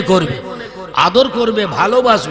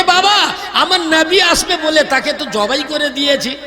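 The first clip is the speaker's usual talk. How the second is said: a lightly raised, higher mother answering her son; tender mother explaining, pitched up; mother's voice; 5 semitones higher than usual. Acted. Mother telling her small son the goat was slaughtered, higher voice. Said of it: "মা বলছে".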